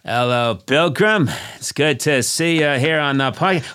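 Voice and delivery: mild hack western hero; understated John Wayne bit; lightly voiced John Wayne. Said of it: "We got John Wayne here".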